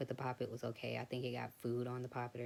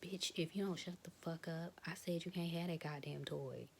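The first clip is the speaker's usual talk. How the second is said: put-on higher, harsh scolding of a little girl; mock mom yelling; 5 semitones higher than usual. Mother cursing at her little girl, imitated harsh scolding. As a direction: snap at the kid like an angry mother. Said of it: "grown women telling their little girls".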